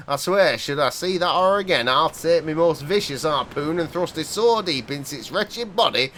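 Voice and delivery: lightly voiced gruff old local; a hint of a wary old seaman; old fisherman. Player reading the old fisherman warning a stranger, lightly voiced. Fisherman tells his sighting.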